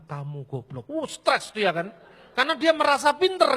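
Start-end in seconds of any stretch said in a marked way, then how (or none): 0.0-0.9 "Kamu goblok" dropped low and soft; low blunt insult. Shown as a demonstration. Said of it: "Tapi begitu saya katakan". ("Kamu goblok" diucapkan rendah dan pelan)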